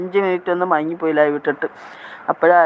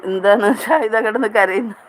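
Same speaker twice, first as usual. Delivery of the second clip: higher voice breaking into a laugh; amused; 4 semitones higher than usual. Real, not acted. Host teasing a viewer who posts crying, amused. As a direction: ask it through rising laughter.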